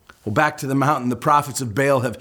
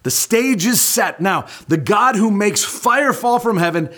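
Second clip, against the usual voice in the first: showman's challenge; 7 semitones higher than usual. Retold or imitated. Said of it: "And so Elijah says".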